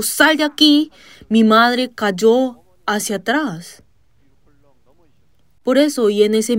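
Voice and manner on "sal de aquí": high, forceful cast-out command; shouted command. Retold or imitated. Preacher casting the demon out of his mother, shouting. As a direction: order the demon out at full force. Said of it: "maldije al demonio diciendo".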